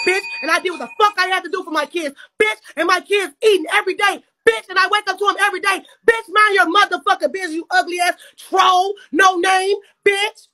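angry. Real, not acted. Furious rant at a troll.

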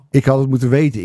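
amused, half-laughing admission. Real, not acted. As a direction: say it while cracking up. Laughing at own remark.

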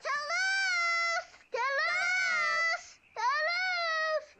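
high anxious calls for a lost brother; calling out. Acted. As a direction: shout his name across the dark, worried.

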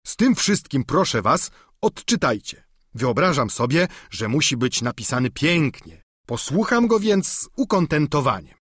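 lightly voiced eager peasant squire; simple squire pleading with his master; Sancho the squire.

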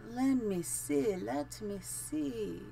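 put-on soft, drawn-out witchy dragon accent. Streamer playing witchy dragon while choosing carpet, soft made-up accent. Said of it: "I feel like being the witchy dragon".

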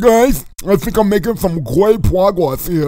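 talking through broken teeth; toothless speech. Acted. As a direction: mangle the words, as if teeth are missing. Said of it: "Why are you talking like that?".

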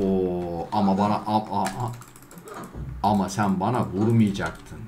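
1 mock whine. Whining after being hit.

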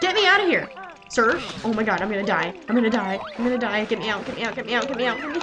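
mock panic. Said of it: "that was a Mulan reference".

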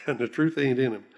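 lightly imitated Oklahoma accent with amusement; a playful touch of Oklahoma accent. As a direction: repeat it in a mild Oklahoma twang, chuckling. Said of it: "That was his Oklahoma accent".

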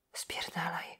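breathless whispered curse; mumbled whisper. Acted. Exhausted girl whispering a curse at the priest. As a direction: spit it out with no voice left. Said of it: "wymamrotała".

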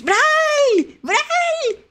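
very high squealed name; excited high-pitched greeting shout; delighted shriek. Real, not acted. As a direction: cry out a friend's name in delight. Greets a friend who just arrived.

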